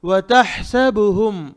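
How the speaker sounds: वतहसबुहुम slow, breathy h squeezed in the throat; ha from deep inside. Shown as a demonstration. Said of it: "हा अंदर से निकालेंगे".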